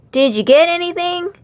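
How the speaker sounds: lightly voiced eager friend; Dudley's voice. A narrator's reading. Dudley asks his friend about the catch, eager.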